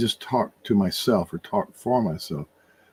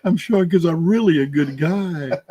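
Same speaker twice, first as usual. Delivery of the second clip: laughing; 6 semitones higher than usual. Real, not acted. Jokes about self-indulgence, laughing.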